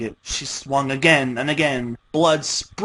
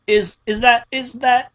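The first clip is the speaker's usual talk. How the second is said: shocked stammer; 10 semitones higher, 5 dB louder than usual. A narrator's reading.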